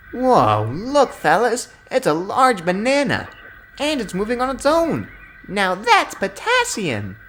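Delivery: high, loud jeering truck voice; mocking trucks. A narrator's reading. Trucks mocking Rebecca as a banana, jeering and high. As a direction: jeer like a cheeky bully truck.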